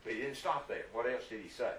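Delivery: usual speaking voice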